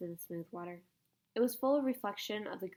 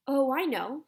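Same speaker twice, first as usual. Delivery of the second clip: excited; 5 semitones higher, 9 dB louder, slower than usual. A narrator's reading. Diggory realises the mistake.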